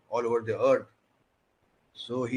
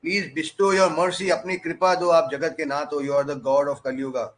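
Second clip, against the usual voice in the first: lightly acted plea, raised and louder; praying; 3 semitones higher, 4 dB louder than usual. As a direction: implore the Lord in a retold prayer. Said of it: "he's playing".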